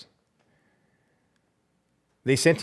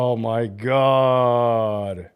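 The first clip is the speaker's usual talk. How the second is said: stunned disbelief; 3 semitones lower, much slower than usual. Real, not acted. Shocked by the bad news.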